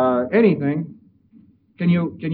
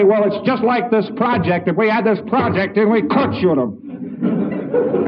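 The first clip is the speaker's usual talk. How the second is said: matching his anger; 4 semitones higher, slower than usual. Retold or imitated. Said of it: "And you say".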